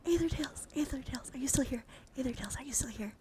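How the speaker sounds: eager calling out. Real, not acted. Streamer checking if a viewer is still here, calling eagerly. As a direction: call again, high then settling down.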